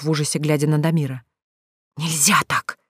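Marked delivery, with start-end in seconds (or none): 2.0-2.8 hissed. Acted. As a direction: hiss it like a startled cat. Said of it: "зашипела, как кошка". (шёпотом шипит, как кошка)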